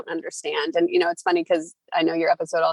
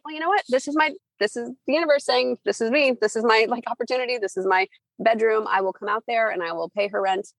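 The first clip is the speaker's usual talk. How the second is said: excited self-quote; 5 semitones higher than usual. Retold or imitated. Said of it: "And I was like".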